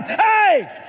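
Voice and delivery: put-on high yelled hey like a little kid; high pitched kid voice. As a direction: squeak it out like a schoolboy. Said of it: "In my elementary high pitched voice".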